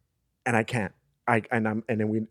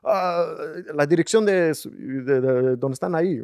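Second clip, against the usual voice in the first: flustered self quote; 6 semitones higher, 5 dB louder than usual. Retold or imitated. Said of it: "So what I said was".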